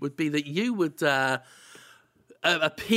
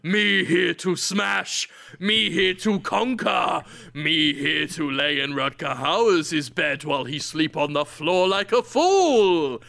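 slow, booming caveman declaration; stomping barbarian; slower than usual. Pretend. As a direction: proclaim it like a dim conqueror on the march. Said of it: "you're out there stomping up and down going".

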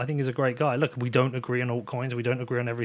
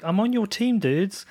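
pitched-up, louder exasperated plea to the trolls; mock-pleading reply to online trolls; exasperated protest; 5 semitones higher, 3 dB louder than usual. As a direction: insist you're on their side, half pleading. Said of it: "I'm like".

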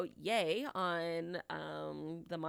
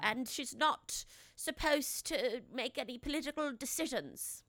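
higher-pitched mock British royal accent; Queen's English accent; 5 semitones higher than usual. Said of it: "That was my Queen's accent".

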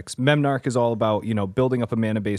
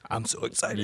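quiet deadpan sarcasm; sarcastic; 8 dB quieter than usual. Retold or imitated. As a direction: say it with no joy at all. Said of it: "And I was like".

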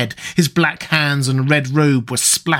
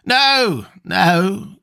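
higher, urgent frightened no; gasped refusal; 7 semitones higher than usual. Acted. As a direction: stop him in sudden fear. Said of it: "gasped Nabonidus".

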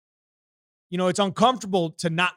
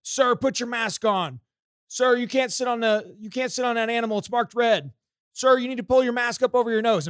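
high, loud nagging mask enforcer; shrill-free high scolding, slowed, overbearing; mock mask police; 6 semitones higher, 5 dB louder than usual. Mimicking the young mask police woman scolding him on the carousel. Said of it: "she was the mask police".

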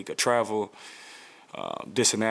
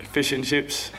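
put-on higher-pitched playful British accent; mock British accent; 5 semitones higher, much slower than usual. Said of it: "Can you give us a little, um, impersonation?".

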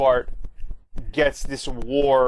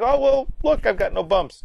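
very high put-on girl's voice, louder; mock Lisa; 11 semitones higher, 3 dB louder than usual. Lisa showing Bart she is fine, in a very high mock voice. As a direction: squeak it up high, showing off relief.

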